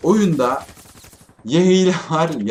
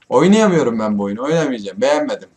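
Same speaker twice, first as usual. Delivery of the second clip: annoyed outburst; 6 dB louder than usual. Real, not acted. Quitting after deaths.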